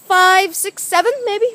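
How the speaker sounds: exaggerated British accent; mock British accent. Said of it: "stop speaking in a British accent".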